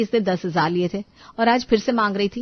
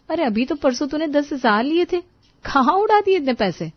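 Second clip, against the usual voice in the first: higher-pitched, reproachful questioning; scolding disbelief; 5 semitones higher than usual. Acted. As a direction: scold an overspending relative in a raised pitch. भाभी पैसे माँगने पर डाँटती है. (हैरानी भरी डाँट, ऊँचे सुर में)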